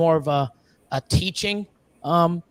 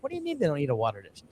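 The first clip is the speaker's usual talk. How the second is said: incredulous; 7 semitones higher, much faster than usual. Retold or imitated. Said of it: "I'm like".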